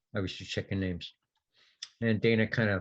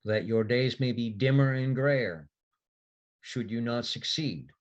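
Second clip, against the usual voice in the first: solemn oath; 2 semitones higher than usual. Acted. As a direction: intone it like a sacred vow. Sigrun administers a solemn oath.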